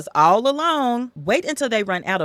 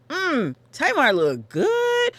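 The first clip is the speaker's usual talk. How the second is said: leering brother; 7 semitones higher, slower than usual. Retold or imitated. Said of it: "but he goes".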